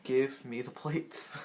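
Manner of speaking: slow, measured mock menace; deliberate, contained demand; close-up threat. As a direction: space out each word as a warning. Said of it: "I get closer, I'm like this".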